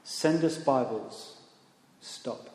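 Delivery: soft and slow, fading to a whisper; hushed, slowed telegram words; hushed last message. Retold or imitated. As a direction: read it like a final faint telegram. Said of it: "simply said this".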